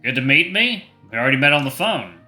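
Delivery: mildly panicked inner rant; mini panic. Acted. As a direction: scold yourself in rising embarrassment. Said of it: "interrupting my mini panic episode".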